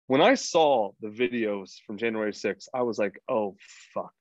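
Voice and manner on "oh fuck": soft low muttered curse; sinking realization under the breath; a quiet, low oh no; quiet dread. Retold or imitated. Dread on seeing videos.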